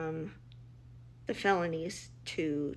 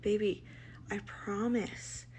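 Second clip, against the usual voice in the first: soft reassurance; 6 dB quieter than usual. Retold or imitated. Mother reassuring scared son.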